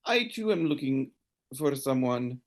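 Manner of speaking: high woman's voice turned earnest about her brother; serious lady. Acted. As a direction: turn dead serious and confide. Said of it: "She says".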